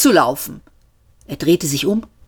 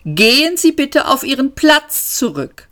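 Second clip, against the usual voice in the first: lightly voiced machine, even and polite; a calm robotic announcer reading rules; metallic autopilot voice; 8 semitones higher than usual. A narrator's reading. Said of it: "metallische Stimme". (automatischer Pilot, metallisch und höflich)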